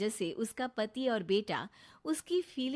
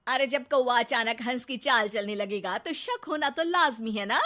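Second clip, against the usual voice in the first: louder sarcastic proverb; teasing housewife; 2 semitones higher, 6 dB louder than usual. Acted. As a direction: rub it in with a lightly voiced wife. Neha keeps teasing. (ज़ोर से ताना)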